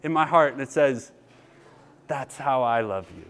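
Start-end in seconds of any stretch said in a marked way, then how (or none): 2.1-3.3 low, soft and gentle, like a voice inside; soft inner whisper. Retold or imitated. Crying man hearing God's voice inside, soft gentle hush. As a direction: hush it like a tender voice in the heart. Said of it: "this little soft whisper in my heart".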